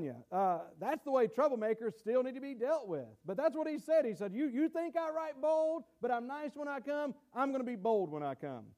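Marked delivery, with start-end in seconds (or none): 4.3-8.7 high challenge dropping to a firm promise; retold retort, high then settling; voiced challenge. Voices Paul answering his critics.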